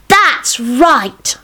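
put-on high, eager child's voice; little son. Son interrupting his dad's bedtime story, high childlike voice. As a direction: pipe up like a young boy.

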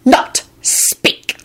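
high and very slow, word by word; slow, menacing order. A narrator's reading. Warlock silencing Elizabeth, slow and stern. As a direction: spell it out slowly, with a pause after each word. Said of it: "the man said slowly".

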